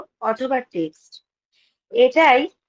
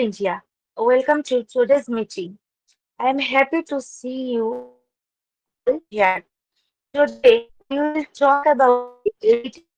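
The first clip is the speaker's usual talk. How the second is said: formal speech; much slower than usual. Acted. Opens meeting with prepared welcome.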